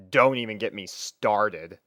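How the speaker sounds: usual speaking voice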